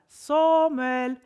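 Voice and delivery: loud, high, sustained call. A narrator's reading. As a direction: sing the name out loudly. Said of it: "rösten som ropar".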